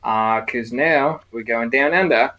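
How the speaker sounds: mock Aussie announcer, badly done on purpose; terrible Australian accent. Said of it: "in my terrible Australian accent".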